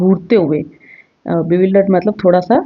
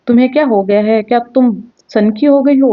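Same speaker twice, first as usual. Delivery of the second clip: shouting; 4 semitones higher than usual. Acted. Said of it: "चिल्लाते हुए उसको बोलता है".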